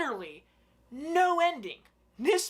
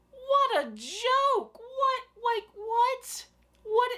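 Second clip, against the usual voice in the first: high, slow incredulous cry; reviewer's high outraged disbelief; 13 semitones higher, much slower than usual. Real, not acted. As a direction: squeal in disbelief.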